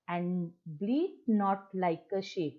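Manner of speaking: slow, drawn-out recital; poem recitation. Shown as a demonstration. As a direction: read the line slowly and evenly. (धीमा कविता पाठ)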